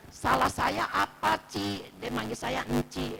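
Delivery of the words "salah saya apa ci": drawn-out, higher, louder anguished plea; retold tearful lament. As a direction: imitate a weeping mother pleading for an answer. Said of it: "Terus mamanya nangis lagi". (menirukan ratapan ibu yang menangis)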